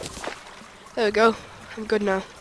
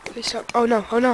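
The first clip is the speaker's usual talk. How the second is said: breathless, panting words; out of breath; 3 dB louder than usual. Real, not acted. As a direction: gasp it out, winded. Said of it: "I'm out of breath".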